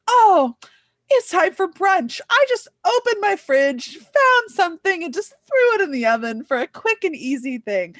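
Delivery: high, loud, breezy posh voice; transatlantic voice. Retold or imitated. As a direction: act out a fancy hostess showing off. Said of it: "Sophie was like".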